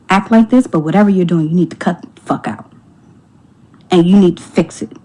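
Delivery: stern warning. Retold or imitated. Wife sternly warning the husband to fix it. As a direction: lay down the law. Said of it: "I was very stern with him".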